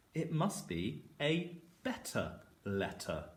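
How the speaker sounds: slow, drawn-out er at the ends of better and letter; stressed er endings. Shown as a demonstration. Teacher showing pupils the er ending, slow and stressed. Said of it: "Can you hear the er sounds at the end".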